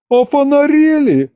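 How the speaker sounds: very high indignant shriek; squeal. A narrator's reading. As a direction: screech it in outrage, voice shooting up. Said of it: "взвизгнул я". (возмущённый визг)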